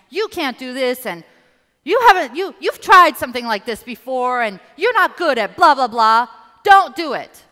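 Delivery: high, loud nagging inner critic; loud critical voice. Acted. Coach voicing the critical ego voice, loud and high. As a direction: shout down your own confidence. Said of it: "very loud and critical".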